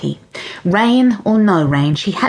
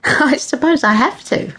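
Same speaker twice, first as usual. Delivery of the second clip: laughing Granny; 8 semitones higher than usual. Acted. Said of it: "laughed Granny".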